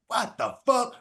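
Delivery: sudden high-pitched disbelief; shocked squeak of a question; retold outburst. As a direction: jump way up in pitch on "What the fuck". Retold outrage at interview rejection.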